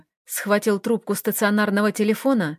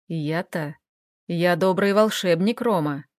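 зловещий незнакомец; 3 semitones lower than usual. Acted. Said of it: "мужик странно засмеялся".

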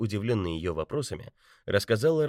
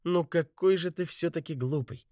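teasing laugh; 11 semitones higher, 4 dB louder than usual. A narrator's reading. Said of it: "хохотнула Бетти".

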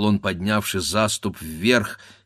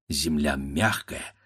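plain reading voice

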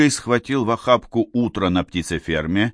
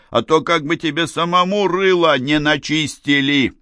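calling after; 7 semitones higher than usual. A narrator's reading. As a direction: shout a warning after him as he runs out. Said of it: "Западло крикнул вслед". (высокий громкий оклик вслед убегающему)

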